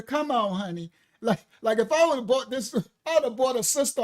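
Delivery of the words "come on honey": put-on old black woman. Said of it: "I'm mimicking the old black woman".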